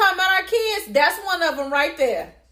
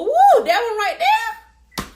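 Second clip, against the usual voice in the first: teasing exclaim; 11 semitones higher, 7 dB louder, slower than usual. Real, not acted. Teasing about oldest daughter.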